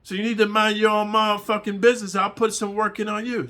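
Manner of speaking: hammed-up prison threat; threatening cellmate. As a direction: warn him off, menacing. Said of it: "He said".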